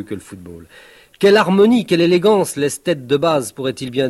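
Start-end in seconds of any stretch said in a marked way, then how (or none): 1.2-2.5 outraged exclamation. Acted. Ranting against football.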